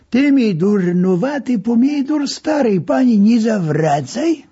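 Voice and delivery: doctor grumbling at the patient; gruff scolding. A narrator's reading. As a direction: brush off the nagging patient. Doctor scolds patient in Lwów slang.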